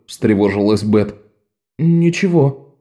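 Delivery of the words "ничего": put-on higher, slow boy's denial; higher slow small boy; shaky boy. A narrator's reading. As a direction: hide the trembling. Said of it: "сказал Лок".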